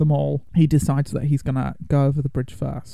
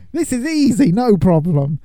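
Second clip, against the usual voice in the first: cocky Sir Robin; 5 semitones higher, 3 dB louder than usual. Acted. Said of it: "not quite as brave as Sir Lancelot".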